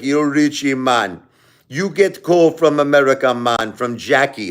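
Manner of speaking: imitated Jamaican man, lively; Jamaican accent. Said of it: "I like to imitate the Jamaican accent".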